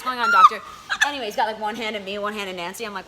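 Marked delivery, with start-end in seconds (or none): 0.0-0.6 very high squeaky outraged question; shrill mock question. Teen asking the doctor what's going on, squeaky high. Teen mocking two-for-one exam.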